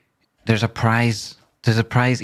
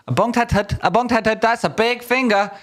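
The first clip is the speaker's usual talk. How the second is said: mock reading; 9 semitones higher than usual. Mock-reading a funny image.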